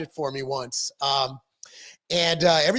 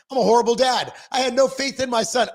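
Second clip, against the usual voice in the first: higher-pitched mock outburst of self-blame; dismayed self-reproach; 5 semitones higher than usual. Dad telling coaches about his son, dismayed self-reproach. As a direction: blurt it out, pitched up, as a retold confession.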